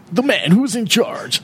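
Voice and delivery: lightly hammed AM radio announcer; mock old-time AM radio intro. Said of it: "There's my A M radio voice coming back".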